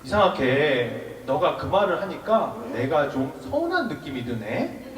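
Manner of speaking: slow, softening toward the end; describing own feeling. Shown as a demonstration. Monk models telling a friend of hurt, slow and mild. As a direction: voice the hurt mildly, without accusing. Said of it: "어떻게 묘사하냐면".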